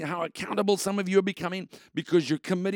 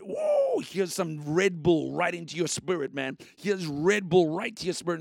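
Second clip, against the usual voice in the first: hyped shout. Acted. Host hyping listeners like Mister Red Bull, pumped. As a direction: pour energy into listeners like an energy drink. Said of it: "I'm going".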